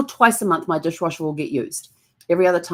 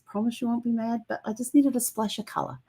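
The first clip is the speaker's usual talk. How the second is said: pleading high voice; 6 semitones higher, 6 dB quieter than usual. Retold or imitated. Pleading with husband.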